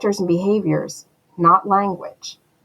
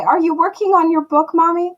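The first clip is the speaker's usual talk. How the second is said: higher-pitched, lightly voiced child's question; eldest daughter; 7 semitones higher than usual. Daughter interrupting mother at work on her book, lightly imitated, higher. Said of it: "So she'll come in and say".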